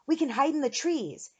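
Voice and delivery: urgent yell. A narrator's reading. Eric urges friends toward trees, loud urgent yell. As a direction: call out the escape plan. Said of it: "Eric yelled".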